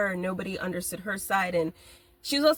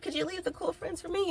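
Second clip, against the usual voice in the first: mock begging; 9 semitones higher, 4 dB quieter than usual. Begging the universe.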